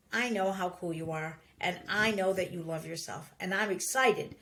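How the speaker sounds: soft, low, reassuring praise; encouraging approach. Acted. Parent encouraging a child to pick up clothes, softly reassuring. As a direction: gently show trust in the child. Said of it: "you could go the approach".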